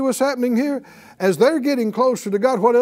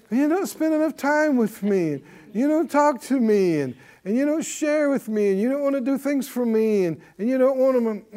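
whiny complaint; 2 semitones higher than usual. Retold or imitated. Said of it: "a whine".

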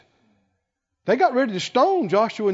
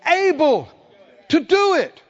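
bold declaration; 10 semitones higher, 6 dB louder than usual. Retold or imitated. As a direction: declare it with full confidence. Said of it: "Caleb said".

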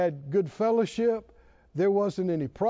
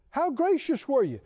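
ordinary delivery

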